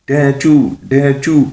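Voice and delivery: high, two-note hee-haw; donkey bray. Acted. Mullah performs for the witch, mock donkey braying. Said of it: "ملا جی نے گدھے کی آواز نکال کر".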